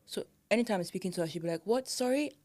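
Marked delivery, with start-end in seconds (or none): 1.6-2.3 higher-pitched imitation of someone not hearing; puzzled asking. Colleague who can't hear the speaker, puzzled high-pitched query. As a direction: mimic a colleague asking for a repeat.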